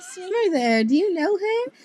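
loud, high, over-excited imitation; mock eager questioning. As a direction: blurt it like an overeager drunk friend. Mimicking friend's eager question.

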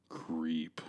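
hushed creepy announcement; whisper. Acted. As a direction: breathe the title like a secret. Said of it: "whispered segment title".

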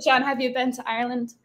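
lightly put-on Irish accent; slight Irish accent. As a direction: ask it with a little Irish accent. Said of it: "Did you just do a little accent?".

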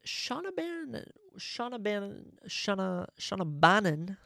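stumbling over Shauna Bannon, retrying it, last try loud; tongue-twisted name. Real, not acted. Host retrying a fighter's hard name, tongue-tied. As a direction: trip on "Shauna Bannon" and push it out. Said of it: "what a tongue twister saying that".

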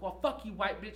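high, loud insulting yell; imitating the student cursing out the teacher; angry insult. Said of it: "She's like".

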